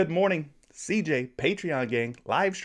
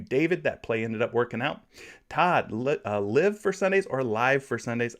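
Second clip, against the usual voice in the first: usual speaking voice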